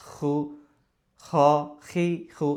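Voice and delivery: খু, খ, খি, খু with a throaty kh; Arabic kho sound. Shown as a demonstration. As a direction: make "খু" a throat sound, not Bengali kh. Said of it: "এরকম". ("খু" গলা থেকে আরবি উচ্চারণে)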